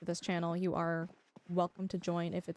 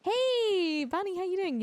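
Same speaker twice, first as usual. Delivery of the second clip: higher, louder hello; excited greeting; 9 semitones higher, 4 dB louder, slower than usual. Real, not acted. Streamer greeting a chatter who just arrived, bright and loud. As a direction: call out a cheery hello to a new arrival.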